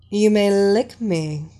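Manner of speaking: a cool command to a slave. Acted. Mistress commanding her slave.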